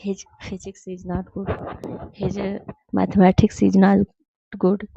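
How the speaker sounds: slow, word-by-word reading of the wrong sentence; slow wrong example. Shown as a demonstration. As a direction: read the wrong example slowly, like dictation. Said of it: "तो ये is लगाना गलत हो जाएगा".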